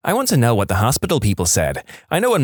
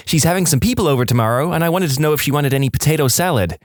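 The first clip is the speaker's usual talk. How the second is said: mum on the phone; 4 semitones higher, faster than usual. Acted. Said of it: "Mum, through the phone".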